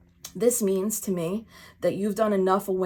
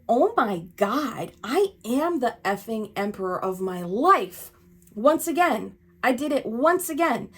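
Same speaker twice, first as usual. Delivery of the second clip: triumphant inner voice; 4 semitones higher, 4 dB louder than usual. Pretend. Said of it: "has you feel as though".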